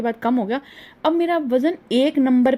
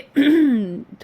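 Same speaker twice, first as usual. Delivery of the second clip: throat clearing; 3 semitones higher than usual. Real, not acted. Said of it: "sorry मेरा गला बैठ गया".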